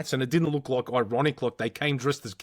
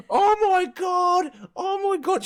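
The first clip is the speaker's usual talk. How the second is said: put-on drunk woman shrieking; 4 dB louder, slower than usual. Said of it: "And then she goes".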